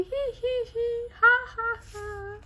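high, giddy hee-hee and ha-ha; laughing. Acted. Harold and Hog laughing together as best friends. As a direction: laugh out the syllables brightly.

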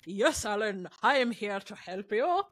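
lightly mocked drooling servant; Fergus impression. Podcaster redoing the servant answering his master, drooling servant voice. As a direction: play a dim bell-puller, with a light touch. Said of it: "like, pulling a bell".

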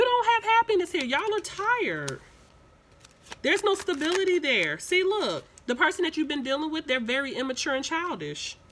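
sudden high excited emphasis on the reading; excited burst. Real, not acted. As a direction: rise way up as the cards hit home. Sudden burst while reading cards.

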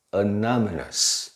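anonymous slowly, uh start and stressed NON; weak first vowel. Shown as a demonstration. Teacher contrasts adjective with noun, anonymous starting on uh. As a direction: reduce the A, stretch NON in anonymous. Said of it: "那这个变成清音的".

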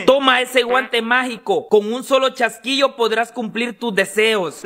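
slow low dragon voice. Acted. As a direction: speak slowly as a magic dragon. Dragon grants the glove.

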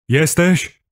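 high, rising call; insistent question. A narrator's reading. Kuba shaking dazed narrator, insistent high question. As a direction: call out to rouse him. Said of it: "zapytał, potrząsając mną drażniąco".

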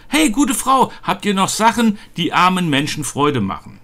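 high-pitched hail to the woman of the house; Knecht Ruprecht. Acted. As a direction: call out in character, starting high and easing down. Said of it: "Knecht Ruprecht kommt mit goldenem Schlitten".

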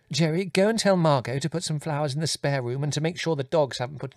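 high-pitched fretful stream of orders; flustered, cross mother. A narrator's reading. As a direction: fuss and scold, pitched well above narration.

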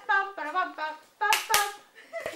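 hummed trumpet fanfare, slow at the end; mouth fanfare. Pretend. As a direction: play a fanfare with your mouth. 입으로 팡파르. (입으로 부는 팡파르)

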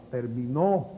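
ter-mi-NÓ with the final syllable punched; "terminó" accented at the very end; stress on last syllable. Shown as a demonstration. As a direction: land hard on the end of "terminó". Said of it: "esta es la palabra aguda".

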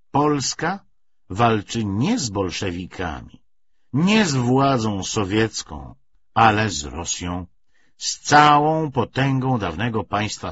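głośno, wolno, z patosem odezwy; podniosła proklamacja. Acted. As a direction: odczytaj jak płomienny apel do narodu. Odezwa PPS odczytana z patosem. (uroczysta, głośna deklamacja odezwy)

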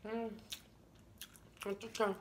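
chewing while speaking; muffled words between bites; mouth full of pizza. Real, not acted. Seen 1: Bites pizza at -4s; cheeks show chewing through the labelled words.

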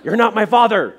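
put-on laughing child voice. Boy clinging to a pole.

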